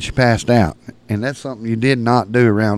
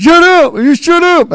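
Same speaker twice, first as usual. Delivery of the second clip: high, loud, annoyed brush-off; 7 dB louder than usual. Retold or imitated. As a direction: shoo him off, annoyed.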